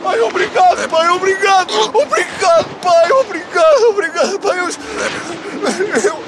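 sobbing, gushing gratitude; crying thanks. Acted. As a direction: blubber out the thanks. (agradecer a chorar)

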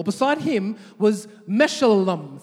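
slow, careful Meshullam; calling out a name. Shown as a demonstration. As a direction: draw out Meshullam so they can repeat it. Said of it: "Say Meshullam".

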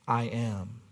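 low, hushed and steady; calm, quiet declaration. Acted. Preacher quotes Jesus answering under duress, low and hushed. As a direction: say it softly and low, with quiet certainty.

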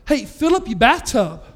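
building into an exasperated exhortation; emphatic urging. Retold or imitated. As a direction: push each suggestion harder. Urging caller to baptize elsewhere.

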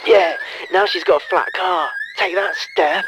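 loud triumphant shout; gloating shout. Pretend. Avenger shouting in triumph over Steph's flattened car. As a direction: crow over the victory. Gloating after dropping the key.

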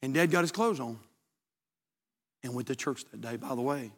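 very soft, low, slowed telling of the ending; hushed storytelling. Acted. Pastor telling the father's turnaround, hushed and low. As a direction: draw the congregation in with a near-hush.

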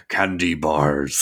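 slow, drawn-out movie-line impression; lightly imitated nonsensical blurt; inexplicable movie quote. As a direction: stretch out both words, quoting a spaced-out stoner. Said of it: "he just says inexplicably".

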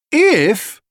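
"if" lifted high and loud; stress on if. A narrator's reading. Father warning the family, pressing the word if. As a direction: lean hard on "if" as a warning. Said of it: "he said".

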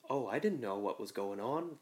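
lightly imitated innocent Minnesota dialect; a hint of naive North Dakota accent; innocent Fargo accent. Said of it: "innocent, like, uh".

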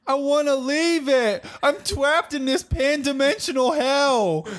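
put-on a trapped mirror man in a vague foreign accent; Dilwyn's odd accent. Dilwyn begs to escape, high, in an unplaceable accent. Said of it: "I don't know what this accent is".

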